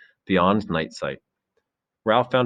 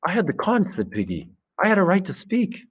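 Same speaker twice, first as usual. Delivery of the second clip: high-pitched indignant squeak; indignant protest; 12 semitones higher than usual. Acted. Piggy protesting to Ralph, high indignant squeak.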